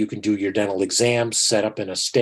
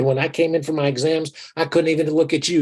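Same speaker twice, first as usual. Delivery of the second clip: quoting Robin; 7 semitones higher than usual. Retold or imitated. Robin quoted in story.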